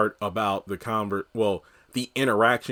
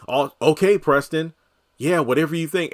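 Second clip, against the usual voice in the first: sarcastic brush-off, a bit higher and louder; mock dismissive Danny; 5 semitones higher, 4 dB louder than usual. Mocking Danny dismissing Preston, sarcastic. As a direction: roll your eyes at Preston. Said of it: "She's like".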